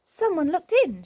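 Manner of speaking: high, loud startled cry; frightened. A narrator's reading. Goldilocks seeing a face at the window, high and loud. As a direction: gasp it out in alarm. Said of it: "Goldilocks gave a scream".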